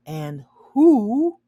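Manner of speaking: a father shrieking in protest; screamed. A narrator's reading. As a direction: cry it out in alarm. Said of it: "Mister Bede screamed".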